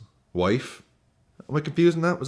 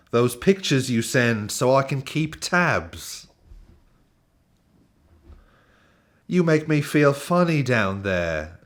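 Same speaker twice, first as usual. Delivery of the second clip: drawn-out mock-romantic British recital; generic British accent; 3 semitones higher than usual. Host reading a footballer's love poem, generic British accent. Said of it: "just gonna do generic British accent".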